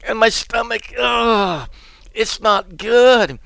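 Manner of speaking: high, strained scared voice; frightened prophet. Retold or imitated. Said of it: "He said".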